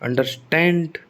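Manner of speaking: अंडरस्टैंड with weight on the final STAND; stress on STAND. Shown as a demonstration. Teacher recalling a familiar verb, second part stressed. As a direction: lean into the स्टैंड of अंडरस्टैंड. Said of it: "तो स्टैंड पर".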